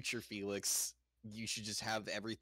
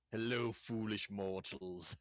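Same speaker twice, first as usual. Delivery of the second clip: slow theatrical villain voice; villain greeting; slower than usual. Acted. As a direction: drawl it like a villain.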